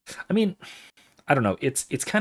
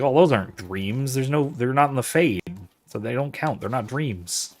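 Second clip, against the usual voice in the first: a light semi-Midwestern accent for the mocking humans; lightly voiced Midwestern American, just a hint of it. Humans dismiss dwarven dreams, light semi-Midwestern accent. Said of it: "doing a semi-Midwestern accent".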